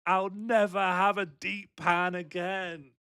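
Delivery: a hammed-up dying man pining for pleasures; desperate longing. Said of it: "being like".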